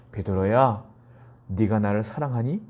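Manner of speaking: gentle question. Retold or imitated. Preacher voices Jesus gently asking Peter.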